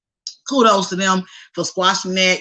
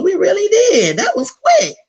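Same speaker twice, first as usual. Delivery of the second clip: mock sob; 11 semitones higher, 5 dB louder than usual. Mock crying over running out of topics.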